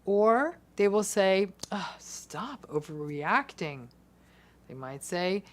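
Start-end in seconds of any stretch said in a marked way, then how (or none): 1.7-3.9 contemptuous. Acted. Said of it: "calmly and perhaps even contemptuously".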